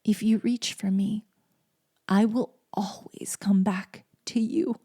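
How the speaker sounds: put-on whispered, tender vow to a small child; hushed promise whispered to her children; quiet promise. Shown as a demonstration. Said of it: "a quiet promise".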